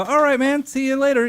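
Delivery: high, loud, hammed-up farewell; cheesy rock-star goodbye. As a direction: play the smug fake celebrity. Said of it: "I go".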